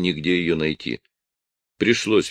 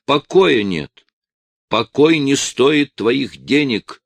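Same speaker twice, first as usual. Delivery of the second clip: shouting wife; 7 semitones higher, 5 dB louder, slower than usual. A narrator's reading.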